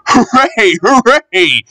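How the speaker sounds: high excited hooray; cheering. Acted. Bertie cheering when the train stops at a signal. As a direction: cheer on the chase.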